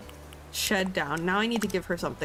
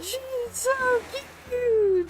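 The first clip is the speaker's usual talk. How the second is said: excited squeal; slower than usual. Real, not acted. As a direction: burst out with the last word. Gushing over cute villager.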